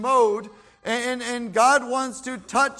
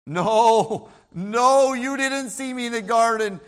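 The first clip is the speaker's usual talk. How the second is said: loud, heated no, no; angry denial; 5 dB louder than usual. Acted. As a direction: snap back at the accuser with a loud denial. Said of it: "And then he got angry".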